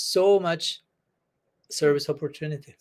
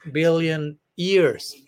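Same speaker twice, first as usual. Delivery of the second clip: mock greedy plea. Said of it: "Rupa Goswami is greedy in this verse".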